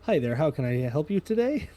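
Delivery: bright, friendly help desk greeting; customer service voice. Acted. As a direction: greet like a call center agent. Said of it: "customer service voice".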